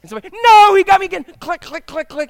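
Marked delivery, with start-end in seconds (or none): 0.4-1.2 put-on high, loud kid's complaint; mock kid outburst; whiny kid. 1.4-2.3 clicking. Shown as a demonstration. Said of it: "like this".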